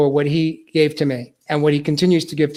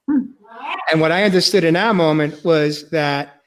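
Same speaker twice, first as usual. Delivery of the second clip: tearful; slower than usual. Real, not acted. Tearful realization of healing.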